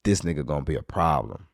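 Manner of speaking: storyteller quietly sizing up trouble ahead; quiet realization. Retold or imitated. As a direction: say it under your breath. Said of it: "I was like".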